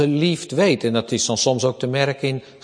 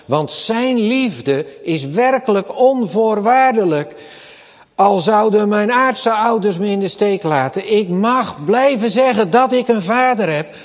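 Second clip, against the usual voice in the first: rising, louder, heartfelt David; David's fervent confession, louder; voicing David; 6 semitones higher, 4 dB louder than usual. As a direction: speak as David, swelling with comfort. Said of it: "zegt hij".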